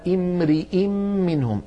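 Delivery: "امرئ" with "i" after the r and on the final hamza; kasra on the ra. Shown as a demonstration. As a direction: say "امرئ" as "imri-in", both vowels clear. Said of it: "الراء جاءت هنا مكسورة". (نطق «امرئ» بكسر الراء والهمزة)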